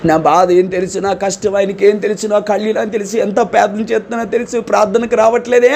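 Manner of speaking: mild mock grumbling of a hurt believer; angry complaint. Pastor imitates a sulking church member, mild mock anger. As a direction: imitate an offended churchgoer, lightly. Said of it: "అని కోపంగా మొఖం ఇలా పెట్టుకుని అన్నాడు".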